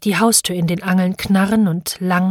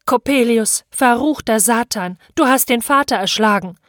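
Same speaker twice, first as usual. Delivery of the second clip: moderately raised accusing cry; 4 semitones higher than usual. Acted. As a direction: accuse him in a higher pitch. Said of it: "so schrie ich auf". (anklagend aufgeschrien, mäßig gehoben)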